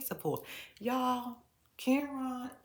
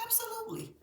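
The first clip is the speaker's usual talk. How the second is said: whisper. Retold or imitated. Daughter's answer, whispered.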